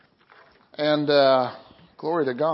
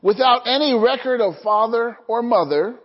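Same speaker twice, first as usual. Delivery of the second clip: measured, emphatic Bible reading; scripture reading; 4 semitones higher than usual. Acted. Pastor reading Hebrews to the congregation, deliberate and emphatic. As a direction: read it out deliberately, phrase by phrase.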